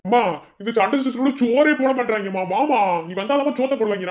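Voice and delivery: high-pitched hungry complaint; impatient nagging. Acted. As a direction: pester mother to come and eat. Hungry relative nagging mother to eat. (பொறுமையில்லாத நச்சரிப்பு)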